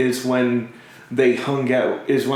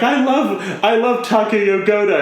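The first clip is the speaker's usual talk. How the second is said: higher and louder "I love Takeo Goda"; shouted confession; 7 semitones higher, 3 dB louder than usual. Retold or imitated. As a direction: belt the confession so he hears. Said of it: "and it's like".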